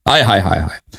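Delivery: low, falling sighs of dismay; lamenting interjection. Real, not acted. Debater lamenting after quoting a grim prophecy, low dismayed muttering. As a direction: let the lament sink and fade away.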